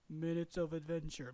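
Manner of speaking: flat monotone delivery. Shown as a demonstration. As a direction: say it dead flat. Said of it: "in a really monotone voice".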